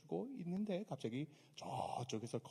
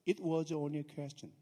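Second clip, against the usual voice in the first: slow English reading; 4 dB louder, much slower than usual. Shown as a demonstration. Preacher quoting English Bible, very slow reading. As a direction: read the English very slowly. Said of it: "영어로 이렇게 돼 있어요".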